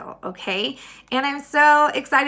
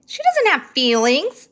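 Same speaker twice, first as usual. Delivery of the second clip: a touch louder, scornful; mild shout; 5 semitones higher, 4 dB louder than usual. Acted. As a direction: snap it back at her sister. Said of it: "shouted Eugenia".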